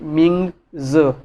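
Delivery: मिंग ज said slowly, z as ज; मिंग ज, z sounded as ज; Chinese mingzi. Shown as a demonstration. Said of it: "वो जेड को ज की आवाज़ देते हैं".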